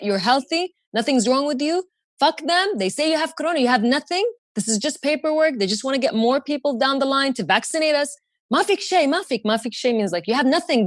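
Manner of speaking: high, defiant rallying; fierce reassurance. Retold or imitated. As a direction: pump him up, angry at the doctors. Defiant pep talk to father.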